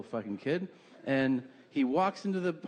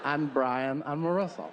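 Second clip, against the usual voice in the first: mock cutesy presenter, voice altered; lightly put-on voice introducing the family; oversharing family sticker. Voices the car's family decal.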